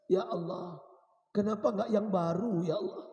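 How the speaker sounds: restrained, mournful plea to God; acted weeping prayer, kept at speaking volume; tearful plea. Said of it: "sambil menangis".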